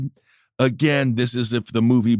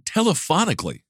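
lightly voiced Trump, stretching "Telephonically" out syllable by syllable; Trump saying telephonically; 7 semitones higher, faster than usual. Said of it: "could you say that word again".

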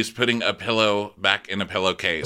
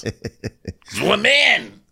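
mock proclamation; 12 semitones higher, 5 dB louder, much slower than usual. Mock sweeping claim about men.

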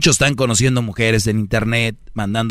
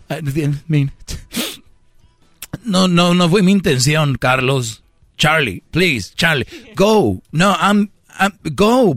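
put-on guilt-tripping girlfriend; 2 semitones higher than usual. Girlfriend pleading with boyfriend to go, guilt-tripping. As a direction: beg him to go while meaning stay.

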